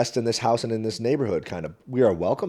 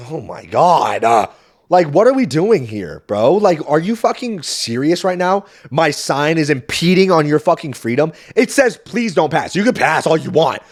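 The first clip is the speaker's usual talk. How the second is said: louder, higher, slow incredulous venting; indignant rant; 4 semitones higher, 5 dB louder than usual. Retold or imitated. Comedian venting to family about the neighbor, indignant. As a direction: disbelief pouring out.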